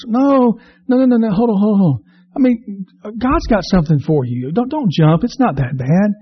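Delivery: passerby urgently stopping a jumper; urgent pleading. Acted. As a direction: grab him with your voice.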